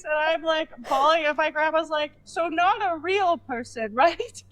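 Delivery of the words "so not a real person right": high, slow checking question; imitating a grandmother, pitched up; incredulous grandma. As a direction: spell it out slowly in disbelief.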